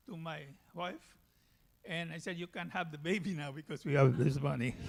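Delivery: normal talking voice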